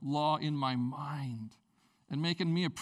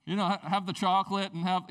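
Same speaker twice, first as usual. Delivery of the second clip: mock generous; 4 dB louder than usual. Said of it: "the new you is like".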